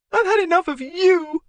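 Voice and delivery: very high, loud yell; furious yell. Acted. Wife yelling at husband, furious. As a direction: fling it back in fury.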